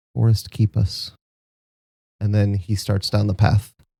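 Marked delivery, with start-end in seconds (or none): 0.2-1.2 barely audible, very quiet hushed murmur. Narrating a scene, a character speaks before starting down the path, very quiet. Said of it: "very quietly".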